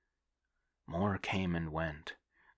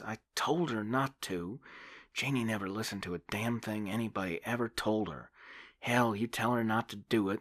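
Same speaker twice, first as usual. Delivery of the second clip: put-on a young woman telling the priest her friend died; bitter young woman; 4 semitones higher than usual. Debbie voiced in the story.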